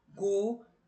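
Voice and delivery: goteira split in three, go... tei... ra; "goteira" counted out as three separate beats; syllable by syllable. Shown as a demonstration. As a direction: break "goteira" into GO, TEI, RA with pauses. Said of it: "eu tenho três sílabas".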